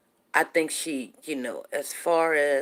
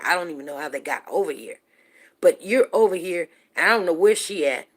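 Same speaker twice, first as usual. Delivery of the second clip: retold angry confrontation; 4 dB louder than usual. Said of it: "so now I'm very furious".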